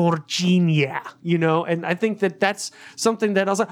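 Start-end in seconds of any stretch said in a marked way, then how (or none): 0.1-1.0 drawn-out, lightly strained alien cry; pained but loving. Retold or imitated. Aliens struggling to say a name, pained but loving. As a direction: imitate pain and bliss at once. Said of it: "in great pain and loving it at the same time".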